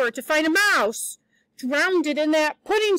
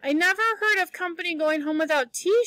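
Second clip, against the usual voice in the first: mournful; 4 semitones higher than usual. Acted. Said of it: "she mourned".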